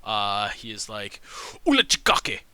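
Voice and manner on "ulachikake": loud, high call in a made-up tongue; big man shouts a challenge at the travellers. Acted. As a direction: bellow it across to the strangers. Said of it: "the man calls out first".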